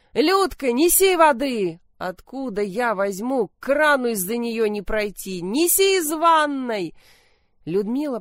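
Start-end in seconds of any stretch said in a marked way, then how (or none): 0.1-6.9 urgent orders. Acted. Mother urgently ordering water.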